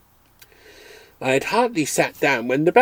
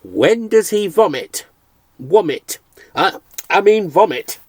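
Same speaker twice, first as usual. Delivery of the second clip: bawled; 7 semitones higher, 7 dB louder than usual. Acted. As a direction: yell it into his ear. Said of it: "and bawled".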